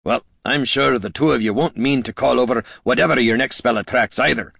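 lightly voiced disgruntled leader; sardonic scolding. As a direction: chide the spellcasters a little.

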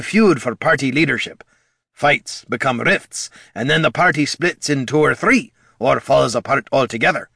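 gruff dwarf voice. Acted. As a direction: warn like a worried old comrade. Gorm's long warning speech.

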